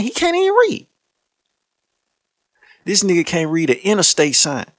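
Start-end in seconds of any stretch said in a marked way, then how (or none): 0.0-0.9 laughing squeal. Real, not acted. Laughing disbelief.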